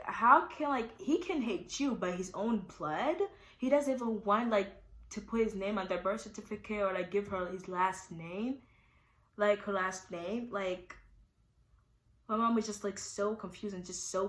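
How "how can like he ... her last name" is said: slow, heated mock outrage from mom; angry mom. Imitating her mom ranting about the baby's father, heated and slow. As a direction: voice mom's fury, drawn out. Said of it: "My mom got so pissed".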